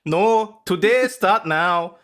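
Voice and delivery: mock Spanish accent. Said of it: "that accent attempt".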